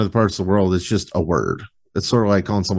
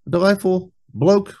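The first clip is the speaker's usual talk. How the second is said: put-on 1 Australian accent; 9 semitones higher, slower than usual. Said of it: "when he said it".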